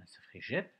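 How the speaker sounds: "gep" whispered with a bare e, no hard gu sound; wrong pronunciation demo. Shown as a demonstration. Teacher to pupils, showing the mistake in a whisper. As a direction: breathe "gep" as the wrong reading without the U. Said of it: "si on enlève le U".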